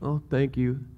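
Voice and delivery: reluctant, grumpy gratitude; begrudging thanks. Shown as a demonstration. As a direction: mumble the thanks like you don't mean it. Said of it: "begrudgingly doing it".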